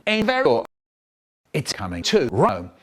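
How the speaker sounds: slow drawn-out "it's coming to Rome"; slow deadpan. Acted. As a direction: stretch every word of "to Rome". Punchline, word swapped in.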